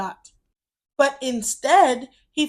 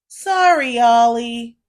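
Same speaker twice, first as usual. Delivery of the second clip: sorry; 7 dB louder than usual. Acted. Brother apologizing to little Oliver, sorry. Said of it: "his brother said".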